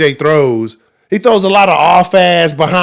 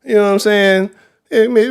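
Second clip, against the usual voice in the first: normal talking voice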